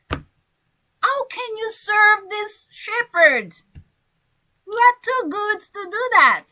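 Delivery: a lightly voiced, baffled wolf; a hint of an outraged wolf; wolf, surprised. Shown as a demonstration. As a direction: scold the buffalo in amazed disbelief. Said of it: "So I am the wolf".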